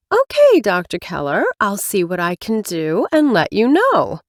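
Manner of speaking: lightly voiced chipper receptionist; bright professional phone greeting, lightly voiced; dating specialist. Same specialist voice.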